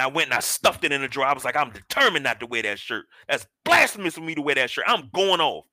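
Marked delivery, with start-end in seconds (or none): 1.6-5.6 rising mock-indignant protest; retold indignation. Retold indignant vow about the shirt.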